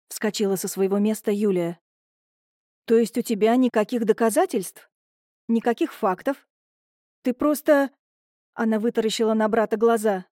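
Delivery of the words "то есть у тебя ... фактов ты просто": building from doubt to near squeal; rising agitation. Acted. Julia confronting her brother, climbing near squeal. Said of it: "почти взвизгнула Юля".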